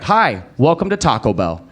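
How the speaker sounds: quick cheerful scripted greeting, "Hi" bright; friendly routine drive-thru welcome; daytime greeting. Shown as a demonstration. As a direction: chirp the greeting like a daytime cashier. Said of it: "if you go any other time".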